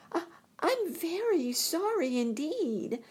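put-on high, stammering scared girl; frightened Dorothy. A narrator's reading. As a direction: stutter out an apology. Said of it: "truly frightened".

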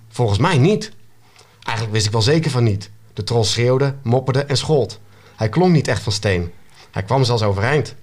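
measured read-aloud storyteller; story narration. A narrator's reading. Author reading an excerpt to the interviewers, story narration. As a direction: narrate the action evenly, pausing between sentences. Reads own book aloud.

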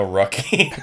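"Rocky" with R for L, mock Japanese accent. Host repeating the lucky joke, mock Japanese accent. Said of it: "what's Japanese for lucky".

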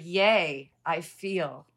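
loud, cheery yay at feeling; mock cheer. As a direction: cheer it like a small victory.

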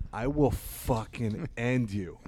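a slow threat that breaks into a laugh. Retold or imitated. Comic to a heckler, slow threat laughing. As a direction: threat cracking up mid-line. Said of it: "and I'm like".

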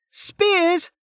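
high, piercing one-word order. A narrator's reading. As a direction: cut through the din. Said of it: "She increased her volume, cutting through".

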